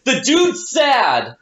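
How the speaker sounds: slow deadpan; deadpan verdict. Retold or imitated. Fan at a concert, slow deadpan to the audience. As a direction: say it slowly and dry, turned to the crowd. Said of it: "turning to the audience going".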